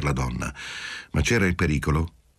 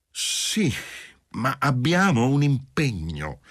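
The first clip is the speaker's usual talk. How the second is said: obstinate; 7 semitones higher, slower than usual. A narrator's reading. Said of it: "disse Giulia con ostinazione".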